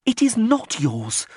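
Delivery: high, slow, tense hiss, lightly done. A narrator's reading. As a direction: spit each word out slowly through the teeth. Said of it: "Shiradaneen hissed".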